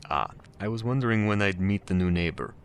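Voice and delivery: put-on lightly done Russian accent; cultured man with a hint of Russian accent. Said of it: "do a shitty Russian accent".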